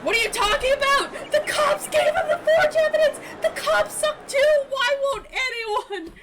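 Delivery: high, loud exasperated yelling; worked-up, high-pitched outburst; outraged rant. Real, not acted. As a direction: rant at the top of your voice, stretching words out. Streamer rants about unpunished cops.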